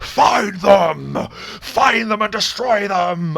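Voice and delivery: high, full-throated bellowing. Narrating a game, the speaker voices Mosrin's turn: Mosrin bellowing. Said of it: "and he bellows".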